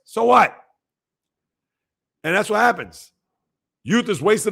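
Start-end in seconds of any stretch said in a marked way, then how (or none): 0.0-0.6 exasperated. Real, not acted. Exasperated retort about trolling.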